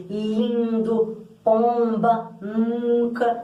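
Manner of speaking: "lindo, pomba, nunca" with the I, O and U nasalised; vogais nasais. Shown as a demonstration. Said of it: "tem um som mais anasalado". ("lindo, pomba, nunca" com vogais anasaladas)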